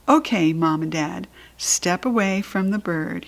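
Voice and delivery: gently calm the parents down. Acted. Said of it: "he made his voice very calmy".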